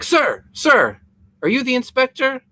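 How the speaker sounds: high, panicky calling out to the inspector; a worried man running up, desperate for help; frantic tenant. Retold or imitated. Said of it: "real frantic and panically".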